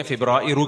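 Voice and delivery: "فبرائرو" said the Arabic way for February; Arabic pronunciation. Shown as a demonstration. Lecturer showing Arabs' word for February, Arabic pronunciation. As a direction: give "فبرائرو" its Arabic ending, -u. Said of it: "عربی لوگ ہیں".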